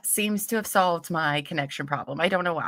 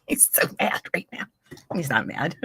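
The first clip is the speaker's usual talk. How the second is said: laughed out almost without voice; giggling through the words; breathless laughing; 2 semitones lower than usual. Real, not acted. Telling viewers about her partner, laughing breathlessly.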